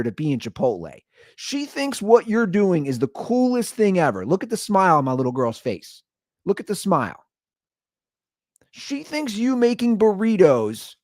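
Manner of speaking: lightly sarcastic lecture. Retold or imitated. Dad with toddler to grumpy Chipotle worker, sarcastic. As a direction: needle the worker with mock encouragement. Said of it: "I just get very sarcastic".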